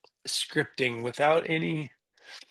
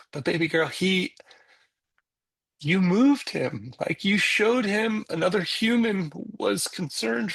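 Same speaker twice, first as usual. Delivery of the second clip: slow, higher, emphatic encouragement; retold earnest reassurance; 6 semitones higher, slower than usual. Dad to his disappointed daughter in the car, earnest reassurance. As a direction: make her see what she did.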